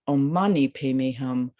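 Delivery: "Mani" pushed up and held a touch longer; stress on Mani. Shown as a demonstration. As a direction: land on "Mani". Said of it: "You can switch".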